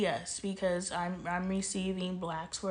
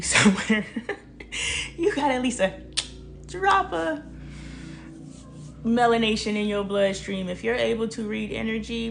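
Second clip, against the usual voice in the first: loud and rising, with a laugh; loud excited; 8 dB louder than usual. Real, not acted. Preaching to white women viewers, loud and fired up.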